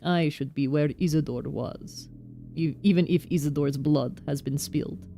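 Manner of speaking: a touch of an indignant Russian foreman; Russian accent. Acted. Foreman condemning guards who respect nothing, light Russian accent. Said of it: "my Russian accent".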